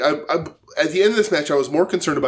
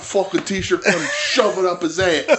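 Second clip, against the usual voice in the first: laughing mock threat; 4 semitones higher than usual. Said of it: "continuing the quotes".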